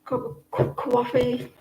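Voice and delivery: playful New York "kwaw-fee"; Yankee accent. Acted. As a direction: softly try the Yankee coffee vowel. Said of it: "Yankee accent".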